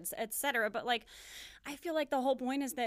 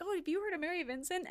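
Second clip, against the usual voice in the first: tag imitation; 7 semitones higher than usual. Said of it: "you all sound like weird cartoon characters".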